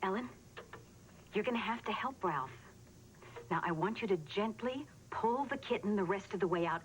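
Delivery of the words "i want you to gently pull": "gently" set apart with careful emphasis; stress on gently. Acted. Mother coaching her child by phone, careful stress on "gently". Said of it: "I stress the word gently".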